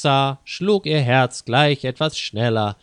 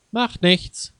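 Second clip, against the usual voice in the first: cheerful; 6 semitones higher than usual. A narrator's reading. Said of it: "sagte Peter frohgemut".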